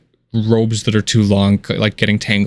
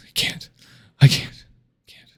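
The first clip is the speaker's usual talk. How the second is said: broken refusal; 3 dB quieter than usual. Acted. Grieving king refuses, broken.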